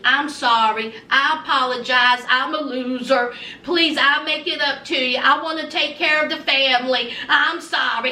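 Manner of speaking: low, pleading voice of a husband begging forgiveness; grovelling husband. Retold or imitated. To his angry son-in-law, a low, begging apology. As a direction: drop low and plead like a whipped loser.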